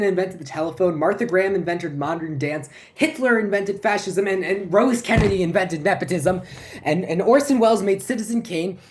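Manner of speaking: mounting frantic recital. Acted. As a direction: build the list to a frantic pitch. Comic monologue racing through history, building.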